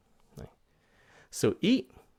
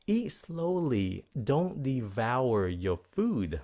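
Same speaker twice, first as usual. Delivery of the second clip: mock parent; 3 semitones higher, slower than usual. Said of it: "người cha mẹ của người bé, ờ, bên Mỹ nói rằng là".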